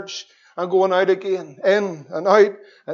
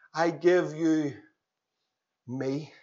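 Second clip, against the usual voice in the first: hushed surrender; 7 dB quieter, slower than usual. Pretend. End of voiced prayer.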